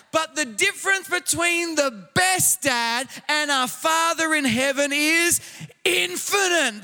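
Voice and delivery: full-voiced sermon delivery, building emphasis; forceful preaching. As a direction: preach it out to the congregation. Preaching to congregation.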